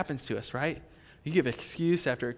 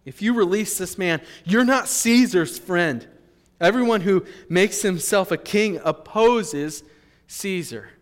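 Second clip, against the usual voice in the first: raised, emphatic crowd accusation; mildly acted public outcry; crying out; 3 semitones higher, 6 dB louder than usual. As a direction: read it as a loud warning, easing off on the last word. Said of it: "But the Jews cried out".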